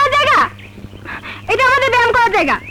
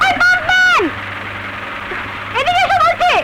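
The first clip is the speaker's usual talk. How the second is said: calling out; 8 semitones higher than usual. Acted. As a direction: yell for the caretaker to come. Calling the caretaker from afar.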